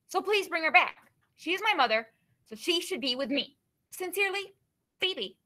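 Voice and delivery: a hint of a worried, pleading kid demanding her mother back; fun Phoebe voice. Teacher reads a student's letter to the class, lightly voiced as a worried girl. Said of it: "read it in my fun Phoebe voice".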